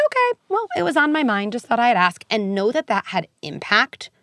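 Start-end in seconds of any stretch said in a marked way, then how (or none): 0.1-2.2 much higher, airy and unbothered, a mock shrug in the voice; a parent answering the kid's complaint about being weird, breezy and unfazed. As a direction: brush it off lightly, like it's no big deal. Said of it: "just be like".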